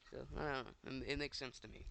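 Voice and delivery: talking with a mouthful of popcorn; chewing between words; eating popcorn. Real, not acted. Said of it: "Sorry, I'm eating popcorn".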